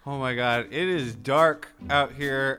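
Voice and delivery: lightly played traffic chopper reporter; a hint of a scared pilot on air; helicopter reporter. Chopper Ryan reporting from the night sky, mock scared.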